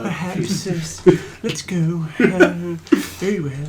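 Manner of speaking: owl voice. Acted. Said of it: "pop your chin forward".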